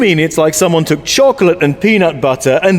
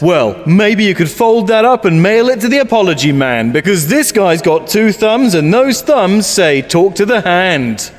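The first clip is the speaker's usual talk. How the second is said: sassy American talk. Acted. To a stranger, condescending American sass. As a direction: talk down like a sitcom hipster. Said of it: "Why are you talking like that?".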